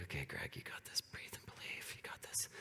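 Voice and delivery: breathy pep-talk whisper. Retold or imitated. Speaker psyching himself up backstage, whispering. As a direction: whisper it to yourself to calm down. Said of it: "I was like, before I came up here".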